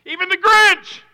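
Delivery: high, loud teasing lift; playful. Acted. Pastor teasing the congregation about the Grinch. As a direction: toss it up playfully.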